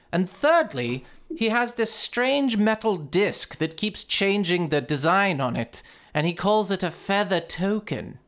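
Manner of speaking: merchant voice in a put-on Swedish accent. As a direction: play the shopkeeper with a thick Swedish accent. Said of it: "the accent is brutal".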